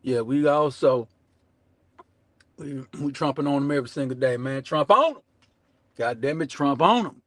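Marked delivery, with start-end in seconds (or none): 4.6-7.2 hype shout. Real, not acted. Hype chant to audience.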